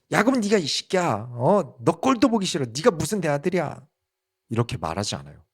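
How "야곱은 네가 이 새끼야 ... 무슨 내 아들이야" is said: a father's angry scolding, pitched up high; mock angry father. Father mock-scolding the son he dislikes, angry and high. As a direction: snap at the son as an imitated outburst. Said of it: "막 화를 내면서".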